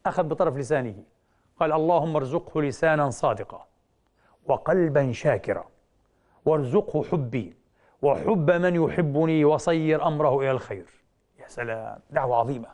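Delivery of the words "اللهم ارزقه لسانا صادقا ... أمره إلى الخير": slow gentle prayer. Retold or imitated. Prophet prays for the man.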